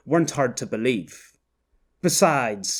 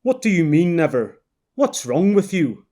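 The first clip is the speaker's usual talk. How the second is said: alarmed Canadian man; 4 semitones higher, 3 dB louder than usual. Acted. Canadian man startled by Quiddell's outburst, alarmed and baffled. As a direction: ask it like he's spooked.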